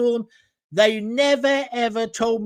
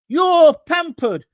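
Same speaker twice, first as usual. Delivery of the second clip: jeering jab; 7 semitones higher, 8 dB louder, slower than usual. Real, not acted. Jeering at Keir on air.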